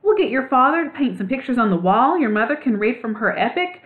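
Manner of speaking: mean every word, building up; earnestly. A narrator's reading. Ragweed earnestly pitching the new club to Clutch. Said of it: "Ragweed said earnestly".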